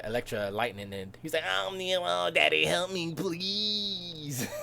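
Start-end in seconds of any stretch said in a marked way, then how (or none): 1.4-4.5 high, hammed-up begging whine; mock a whiny son crying for help; whining plea. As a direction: wail it high, stretching the last word. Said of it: "he whines when he's getting Electra".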